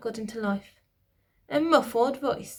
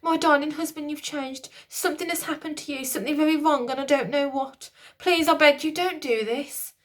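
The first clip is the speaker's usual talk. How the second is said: pleading queen; 6 semitones higher than usual. A narrator's reading.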